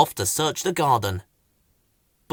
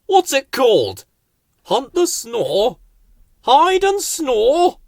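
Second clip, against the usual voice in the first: teasing; 10 semitones higher, 6 dB louder, slower than usual. Acted. Teasing questions.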